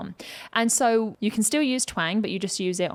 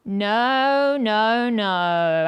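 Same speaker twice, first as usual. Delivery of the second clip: louder held twangy no's; twang trigger; 4 dB louder, much slower than usual. Shown as a demonstration. Coach showing how to start a trigger, twangy and held. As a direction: launch the twang on each held word. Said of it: "how triggers work is you start them".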